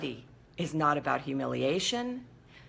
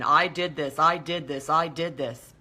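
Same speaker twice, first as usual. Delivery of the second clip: mock self-berating; 4 semitones lower than usual. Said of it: "berate myself, like self-flagellation".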